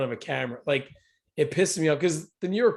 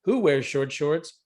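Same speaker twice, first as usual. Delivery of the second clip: annoying newscaster voice. Retold or imitated. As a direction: overblown news anchor read. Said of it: "in that annoying newscaster voice".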